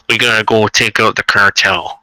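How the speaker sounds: a light nerdy announcer read; hint of a nerdy voice actor. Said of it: "give me the nerdy voice".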